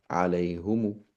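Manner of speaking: عليهم said short as alayhim; correct pronunciation. Shown as a demonstration. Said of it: "not عليهم، but عليهم".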